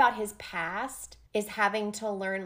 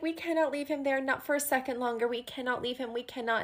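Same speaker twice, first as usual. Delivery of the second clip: higher, pleading retold grief, no tears; mildly imitated sobbing; 4 semitones higher than usual. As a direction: plead it, a touch tearful, fading at the end. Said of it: "like, sobbing".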